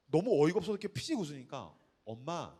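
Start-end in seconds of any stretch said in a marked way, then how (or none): 2.0-2.5 slow, soft, drawn-out philosophizing; imitated worldly-wise child. Seven-year-old consoling her mom, slow and soft. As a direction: say it softly like a tiny sage.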